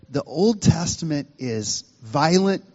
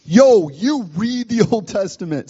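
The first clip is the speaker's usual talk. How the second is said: higher, brusque street-style order; rude, blunt command; 5 semitones higher than usual. Retold or imitated. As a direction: bark it like a rude bossy friend. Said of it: "It's kinda rude".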